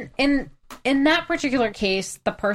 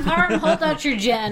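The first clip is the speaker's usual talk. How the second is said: laughing mock; 5 semitones higher than usual. Real, not acted.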